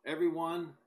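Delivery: brisk, emphatic Bible reading aloud; declaimed scripture, pushing through each verse. Acted. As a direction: read the verses out briskly to a congregation.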